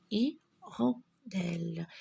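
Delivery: Hirondelle said as i-ron-delle, the H silent. Shown as a demonstration. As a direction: drop the H, start Hirondelle on a clear i. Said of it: "le H ne se prononce pas".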